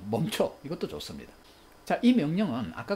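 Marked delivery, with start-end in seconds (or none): 0.1-0.6 firm, brief order; stern command. Shown as a demonstration. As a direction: halt runaway thoughts with a command. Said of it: "우리말로". (단호하게 명령하듯)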